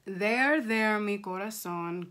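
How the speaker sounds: soothing mom, slowing down; slow, tender reassurance; motherly cooing. Acted. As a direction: coo gently to comfort a child. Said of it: "cooed Missus Gomez".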